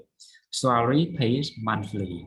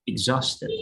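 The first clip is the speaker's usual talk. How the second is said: "exhausted" stressed on HAUST, with a Z sound; stress on second syllable. Shown as a demonstration. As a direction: lean on the middle of "exhausted". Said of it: "Stress on exhaust".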